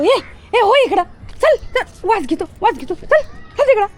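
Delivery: high, sharp commands in short bursts; high-pitched repeated orders; shooing. Real, not acted. Shooing animal away.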